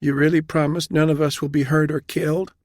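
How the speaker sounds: high, pleading woman's voice; anxious, hopeful question pitched high; frightened young captain. A narrator's reading. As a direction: ask timidly for reassurance.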